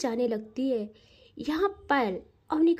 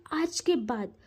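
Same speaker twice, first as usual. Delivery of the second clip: angrily; 2 semitones lower than usual. Acted. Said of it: "गुस्से से देखती है".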